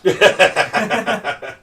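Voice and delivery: hearty burst of laughter; big laugh at a friend's remark; real laughter. Real, not acted. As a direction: laugh out loud in quick bursts. Laughs after back hurts remark.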